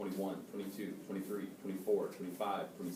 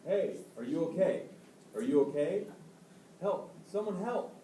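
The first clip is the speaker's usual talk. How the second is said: screaming in fear; 10 semitones higher, 7 dB louder than usual. Acted. Acted CPR rescue calling out.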